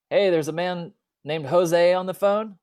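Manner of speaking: mock yell of a father calling someone to the phone; dad yelling. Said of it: "he yells out to me".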